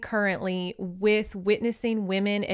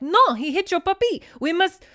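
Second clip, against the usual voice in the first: high, loud indignant outburst; hammed-up heroine's protest; mock yelling; 8 semitones higher, 5 dB louder than usual. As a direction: cry out in theatrical outrage, ending in a growl. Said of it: "she wants to yell at this man".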